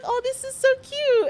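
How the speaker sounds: high imitated coo of delight; gushing. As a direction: mimic a friend gushing over a gift. Imitating friend gushing over gift.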